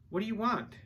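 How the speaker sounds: put-on high, loud young boy; little boy's question. A narrator's reading. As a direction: ask it high, as a wary boy.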